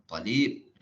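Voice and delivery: "Talib" with a short "Ta" and a rise on "lib"; Malay-accented Arabic. Shown as a demonstration. Teacher shows Arab Celuk, Malay-accented "Talib". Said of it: "Itu Arab Melayu ataupun dipanggil Arab Celuk".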